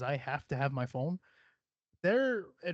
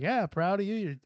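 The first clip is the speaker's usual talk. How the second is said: louder, higher mock-proud uncle voice, breaking into a laugh; hammed-up clueless praise, pitched high; 4 semitones higher, 3 dB louder than usual. Host imitates his uncle praising him obliviously, loud mock voice. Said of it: "this dude's just like".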